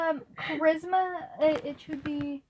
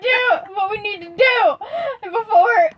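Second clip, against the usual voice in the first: loud, high, insistent demand; urgent shout; 6 semitones higher, 7 dB louder than usual. Acted. Hefty loses patience with Kai, shouting. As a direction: bark the order, out of patience.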